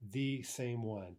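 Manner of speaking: slow, deliberate stress on "the same one"; emphatic. Shown as a demonstration. Teacher showing students the emphatic form, emphatically. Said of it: "We're being even more emphatic".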